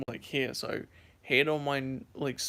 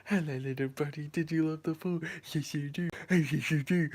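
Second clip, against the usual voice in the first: cooing talk to a pet; baby voice. Shown as a demonstration. Greeting the dog after the pool, baby voice. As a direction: gush over the little dog as to a baby. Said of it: "baby voice to him".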